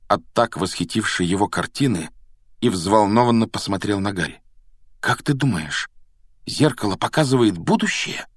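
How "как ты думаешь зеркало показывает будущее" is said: raised, hopeful question; lightly wishful, pitched up. Acted. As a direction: ask with a touch of hope. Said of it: "В голосе Рона звучала надежда".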